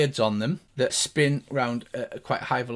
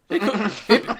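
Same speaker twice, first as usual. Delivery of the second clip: high, louder gnome voice; gnomish voice; 6 semitones higher, 6 dB louder, faster than usual. Acted. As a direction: placate in a squeaky-high gnome pitch. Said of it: "And he's like".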